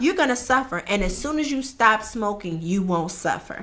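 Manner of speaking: warning her through a laugh. Retold or imitated. Trainer laughingly warns her smoking client, laughing. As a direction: laugh while telling her she'll suffer. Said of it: "I would tell her that every session".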